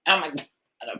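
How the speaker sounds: winded after shouting; breathless, gasping for air; out of breath. Real, not acted. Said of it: "ran out of breath".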